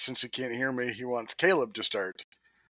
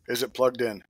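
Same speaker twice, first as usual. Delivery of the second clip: weary patient tech support. Pretend. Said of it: "my best I T, I T help desk impression".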